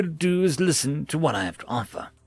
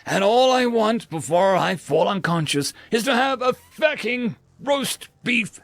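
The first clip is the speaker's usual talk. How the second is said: furious rant; 6 semitones higher than usual. Acted. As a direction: rage until the voice cracks. Customer rages, exhausted.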